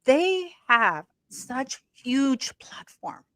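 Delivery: slow, unvoiced whisper. Real, not acted. Host gossiping about Harry's platform, whispered.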